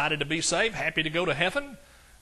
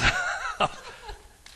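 high-pitched laugh at himself. Real, not acted. Preacher amused by his own reply to God, laughing. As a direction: break up laughing mid-story.

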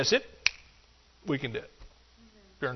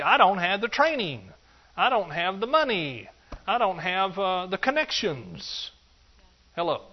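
whining excuses; 4 semitones higher, slower than usual. Acted. Preacher mimics a complaining excuse-maker.

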